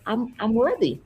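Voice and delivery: mildly hesitant, imitating a client without conviction; unconvinced affirmation. Client saying an affirmation for her coach, unconvinced. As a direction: stumble lightly into it, lacking power. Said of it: "I wanted her to say it with power".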